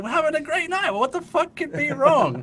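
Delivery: high, loud mock-incredulous outburst; exasperated disbelief. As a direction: squawk it at the friends, stretching out the last question. Acted baffled driver confronting his friends.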